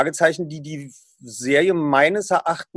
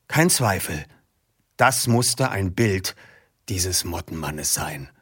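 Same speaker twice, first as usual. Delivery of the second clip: reading aloud; 3 semitones lower than usual. Acted. Host reads the Mottenmann book passage to listeners, low, hushed story reading. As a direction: read the eerie passage like a mystery narrator. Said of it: "Ich möchte das mal vortragen".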